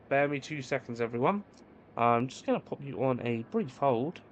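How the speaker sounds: polite call-centre agent voice; sweet, scripted phone-support tone; customer service voice. Shown as a demonstration. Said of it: "There's my customer service voice".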